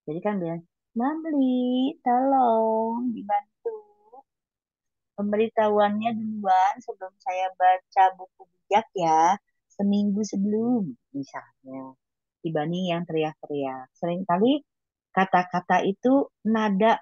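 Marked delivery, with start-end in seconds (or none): 1.0-10.9 lightly voiced gentle asking to Mamli; gentle request. Shown as a demonstration. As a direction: show how it sounds said gently instead of yelled. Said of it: "Kalau perkataan saya lemah lembut".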